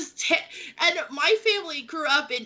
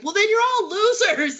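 dismissive insult; 8 semitones higher, 4 dB louder than usual. Retold or imitated. Time traveler insulting peasants.

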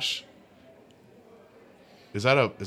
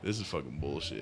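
hushed curse under breath; whispering; 8 semitones lower, 15 dB quieter than usual. Real, not acted. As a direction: whisper it in disgust. Beer foams over.

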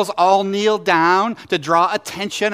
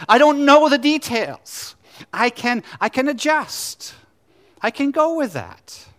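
voicing Abraham; 2 semitones higher than usual. Preacher voicing Abraham, calm building to excited acceptance. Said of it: "Abraham is saying this".

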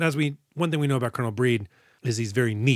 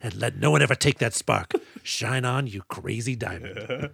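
softening, fading into a hush; mock tender coach. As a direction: soothe like a gentle mentor.

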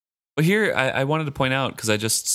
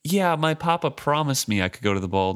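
mocking Malta; 6 semitones higher than usual. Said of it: "Malta, twelve years old".

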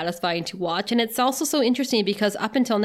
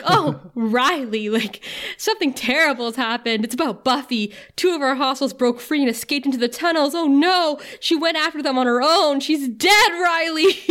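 hammed-up fake grief, rising higher at the end; mock melodramatic bad actress; bad fake acting; 5 semitones higher than usual. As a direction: overplay the tragic news badly. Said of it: "putting on this acting show that is not good".

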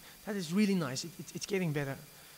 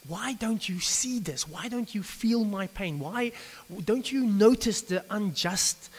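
anguished plea; 4 semitones higher than usual. Retold or imitated. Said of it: "maybe he just said".

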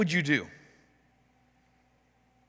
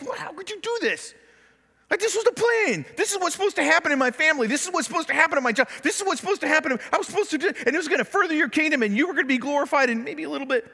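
angry questioning; 10 semitones higher, faster than usual. Retold or imitated. Acted angry prayer to God.

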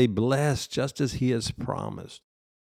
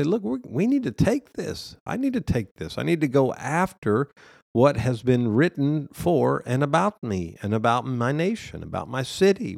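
breakthrough resolve; 3 semitones higher than usual. Pretend. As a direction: snap into it, claim what is yours. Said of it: "you're gonna snap and say".

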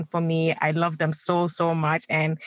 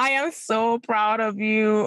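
higher and slow, voice full of emotion; heartfelt, emotional slow praise; tearful pride; 4 semitones higher, slower than usual. Real, not acted. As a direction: say it as if holding back tears. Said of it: "You're making me wanna cry".

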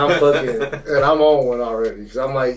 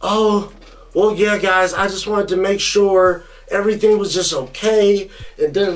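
higher, syrupy mock-friendly cop voice; sudden fake niceness; 5 semitones higher than usual. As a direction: flip to a sugary, too-friendly tone. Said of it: "Super attitude change".

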